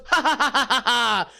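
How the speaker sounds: high, hammed-up ha-ha laugh; mock a whole table laughing at you; imitated group laughter. Diners laughing at the confused customer, high mock group laugh. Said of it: "then everyone goes".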